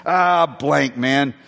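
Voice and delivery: mock venting, dragging out the censored swearing; retold angry venting. Irate customer venting to the pastor about his divorce, retold as angry venting. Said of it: "he just started puking".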